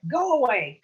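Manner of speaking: first go away, loud; angry yell. Acted. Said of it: "She screamed at 'em".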